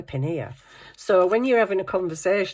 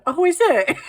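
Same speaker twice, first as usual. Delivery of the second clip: innocent; 13 semitones higher, 7 dB louder than usual. Retold or imitated. Dad's innocent reply, voiced high.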